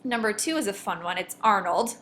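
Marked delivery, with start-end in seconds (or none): 1.4-2.0 put-on ARN-old, punched on the first syllable; "Arnold" with weight up front on Arn; stress on ARN. Shown as a demonstration. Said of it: "the stress is on Arn".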